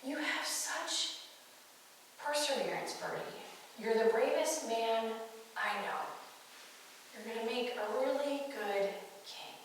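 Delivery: soft, unhurried, sincere praise; gentle affirmation. Retold or imitated. Lionel stands before Birdie and affirms him, tender. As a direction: quietly reassure him, pausing between phrases. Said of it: "he affirms him".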